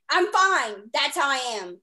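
loud, strained mock fine; forced fine. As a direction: fake brave outburst. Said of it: "you're like".

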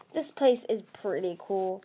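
put-on breezy girl voice. Faith Speaker voiced.

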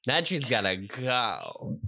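slow, low stern voice. Pretend.

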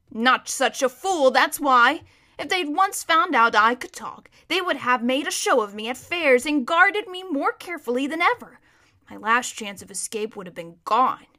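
emphatic, lightly voiced horse; impatient talking horse. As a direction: explain it as if it were obvious.

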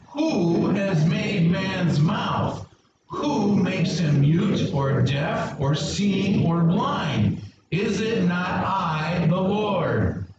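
high, slow sarcastic challenge; sarcastic God. Shown as a demonstration. Preacher leading the church in God's sarcastic reply. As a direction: lay the sarcasm on thick, slowly. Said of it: "This is sarcasm".

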